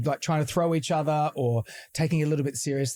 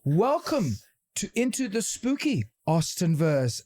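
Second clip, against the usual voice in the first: slow, high spooky welcome; spooky announcer; 4 semitones higher, slower than usual. Pretend. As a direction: announce it like a haunted host. Spooky show intro.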